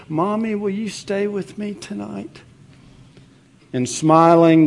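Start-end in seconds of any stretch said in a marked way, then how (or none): 0.1-2.4 put-on small, scared child, higher and softer; little boy voice. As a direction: plead like a frightened little boy. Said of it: "a little trembling boy said".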